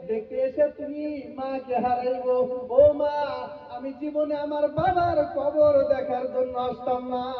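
plaintive, half-chanted grief; acted orphan's mourning; crying child. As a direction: lament to a dead mother, drawing out the ending. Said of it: "কান্দে আর বলে".

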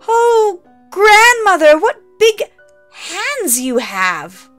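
put-on high, loud, frightened girl; scared little girl; growing alarm. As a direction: voice climbing in fear.

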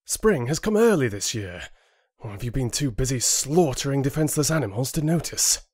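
storming, rising into a fast rant; angry accusation. Acted. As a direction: jab the words at him. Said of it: "Rin stormed over and jabbed him".

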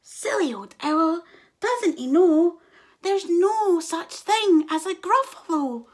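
a cheeky mouse laughing at the owl; mouse mocking. A narrator's reading.

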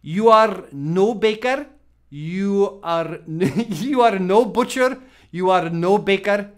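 mock heavy Polish accent, slow and stern; a light Polish accent, slowed and scolding. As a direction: imitate the old Polish chef's harsh verdict. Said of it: "He had this heavy Polish accent".

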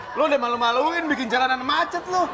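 laughing scold. Acted.

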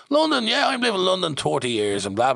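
light up at the name; excited director. Retold or imitated. Director delighted to hear about London.

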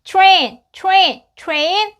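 "train" begun with a sound close to "chu". Shown as a demonstration. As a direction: run t and r together so "train" starts like "chu-rain". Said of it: "to에 가까운 소리가 나서".

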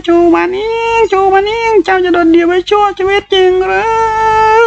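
very high, loud drawn-out wail; wailing shout. A narrator's reading. A voice in the head taunting Chu Wanning, wailing shout. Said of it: "ตะโกนด้วยเสียงโหยหวน".

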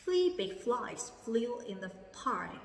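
"Three big flies flew in the pie" read slowly, word by word; slow reread. Shown as a demonstration. Teacher rereading the sentence slowly for the class. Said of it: "Cô đọc lại ha".

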